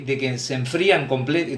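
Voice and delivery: "enfrían" said as a slip, then cut off mid "comple-"; false start on "enfrían", cut short; slip of the tongue. Real, not acted. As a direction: stumble on "enfrían" and break off. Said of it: "de que se enfríen completamente".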